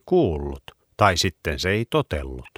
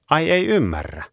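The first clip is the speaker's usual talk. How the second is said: surprised; 8 semitones higher than usual. Acted. Surprised dog question.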